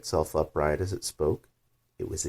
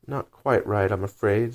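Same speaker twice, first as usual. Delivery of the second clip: timid; 3 semitones higher, 5 dB louder than usual. Acted. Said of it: "said Alice timidly".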